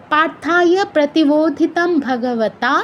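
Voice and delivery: slow, measured verse line with no pause inside; in one breath. Shown as a demonstration. Teacher shows students the first twelve syllables, in one breath. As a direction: recite "পার্থায় প্রতিবোধিতম ভগবতা" unbroken, slowly. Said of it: "এতটুকু অবশ্যই আমাদের একশ্বাসে উচ্চারণ করতে হবে".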